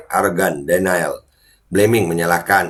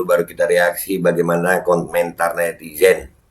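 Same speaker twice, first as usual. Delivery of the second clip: talking around a cigarette; cigarette in mouth. Real, not acted. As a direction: speak with a cigarette between lips. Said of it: "gua nyalain rokok dulu".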